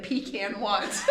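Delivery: "pecan" drawn out slowly as PEE-can; mocked pronunciation of pecan. Shown as a demonstration. Host puzzling over the weird version, pecan as slow PEE-can. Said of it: "pecan just sounds weird to me".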